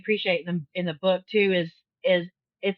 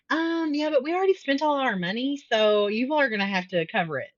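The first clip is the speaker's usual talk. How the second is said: mock airy teenager; 6 semitones higher than usual. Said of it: "They're like".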